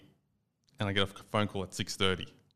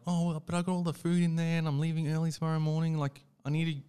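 higher, whiny wife voice; mimicking wife; 8 semitones higher than usual. Husband mimicking his wife fretting, higher whiny voice. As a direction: play her fretting over the groceries. Voicing wife's panicked excuse.

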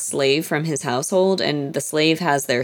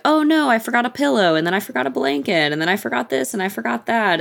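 higher, sing-song list of excuses; mock dismay; 7 semitones higher than usual. Wife stalling her husband with forgotten things, mock dismay. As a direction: play up each fake oops in a higher pitch.

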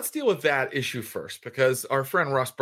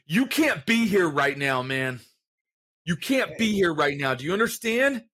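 higher, firm warning; Craig pushing back; 4 semitones higher than usual. Acted. Craig blocking the starving vampire, firm and raised. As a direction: hold the line and refuse entry. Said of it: "pushes you back and goes".

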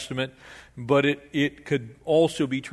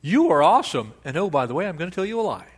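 smooth politician; faster than usual. Retold or imitated. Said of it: "It's kinda like".

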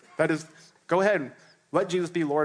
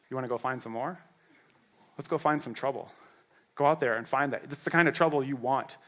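warm encouragement. Acted. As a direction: coax them gently toward trouble. God voiced encouraging apostles.

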